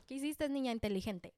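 sarcastic mom. Retold or imitated. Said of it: "Me dijo mi mamá".

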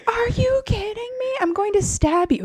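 high, loud indignant threat; mock outrage. Host acts heroine threatening her lover, high mock outrage.

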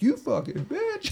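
high, slow mock-annoyed insult. Telling friends what he said to his sister, slow exasperated insult.

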